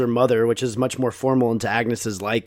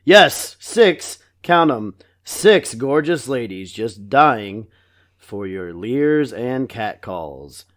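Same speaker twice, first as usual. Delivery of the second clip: slow, stiff doll-like pitch; talking doll; 4 semitones lower, much slower than usual. Retold or imitated. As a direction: read it like a toy. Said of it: "doll principal voice".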